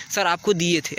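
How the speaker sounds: polite, even "sir आपको दिए थे"; respectful way. Shown as a demonstration. Teacher shows pupils the polite way to address sir. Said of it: "ऐसे कहते हो, नहीं कहते हो?".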